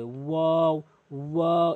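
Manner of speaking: "ওয়াও" drawn out with rounded lips; rounded-mouth demo. Shown as a demonstration. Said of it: "মুখটা গোলাকার করে". ("ওয়াও" মুখ গোলাকার করে)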